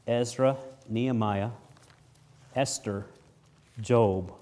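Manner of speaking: book names spaced out slowly, one by one; Ezra, Nehemiah, Esther, Job each set apart with pauses; careful slow listing of Ezra, Nehemiah, Esther. Shown as a demonstration. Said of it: "I have to say that slowly".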